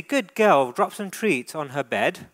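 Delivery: a bright praise for the dog then instruction; praise demo. Shown as a demonstration. Trainer shows owner how to praise the dog, lifted warm tone. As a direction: say good girl with a lift.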